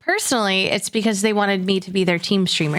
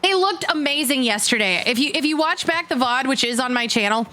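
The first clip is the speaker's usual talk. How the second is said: talking through a face covering; muffled; 3 semitones higher than usual. Real, not acted. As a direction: voice muffled behind fabric. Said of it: "I get muffled".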